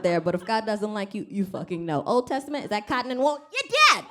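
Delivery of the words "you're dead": high, loud smiting yell; mock wrathful shout. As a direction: bellow it like an angry Old Testament God. Voicing an Old Testament God.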